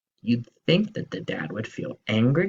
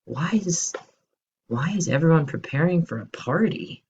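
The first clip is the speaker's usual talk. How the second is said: higher, puzzled brother asking; concerned older brother; 6 semitones higher than usual. Acted. Older brother puzzled by the party preparations, higher and worried. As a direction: raise the voice in baffled worry. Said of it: "He's very concerned".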